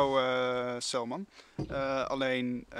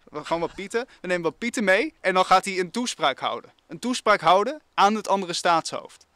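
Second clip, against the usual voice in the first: high, loud, animated pitch; excited; 4 semitones higher, 5 dB louder than usual. Real, not acted. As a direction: sell the idea with gusto.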